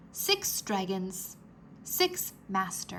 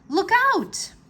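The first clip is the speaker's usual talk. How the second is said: higher, louder urgent warning; alarmed warning; 11 semitones higher, 8 dB louder than usual. A narrator's reading. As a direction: shout it as a warning. Chapter title warning.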